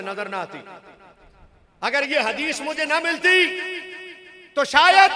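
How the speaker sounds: high-pitched sermon oratory; ख़िताबत. Real, not acted. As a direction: address the whole mosque, pitch held high. Addresses congregation with rising oratory. (ऊंचे सुर में मजमे से ख़िताब)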